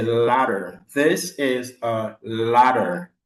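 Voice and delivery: This is a ladder, very slow, each word apart; slow American model for the class to repeat; slow model sentence. Shown as a demonstration. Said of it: "si vous voulez l'accent américain". (phrase modèle très lente : This is a ladder)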